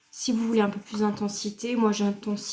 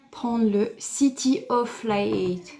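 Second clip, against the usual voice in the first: French-accented English; 4 dB louder, slower than usual. Real, not acted. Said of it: "Excusez-moi pour mon anglais".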